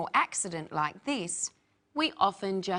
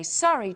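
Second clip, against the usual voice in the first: "sorry" mit fallendem Ton; "sorry" fällt am Ende ab; falling sorry; 3 semitones higher, 5 dB louder than usual. Shown as a demonstration. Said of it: "notice how the inflection changes".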